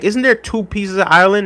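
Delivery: mock confused question to himself; imagined question. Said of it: "a part of me was gonna be like".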